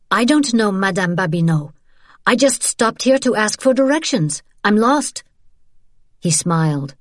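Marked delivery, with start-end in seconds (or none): 0.1-5.2 high-pitched protest of innocence; Isabel, insistent denial. Acted. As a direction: start controlled, climb into a pleading lie.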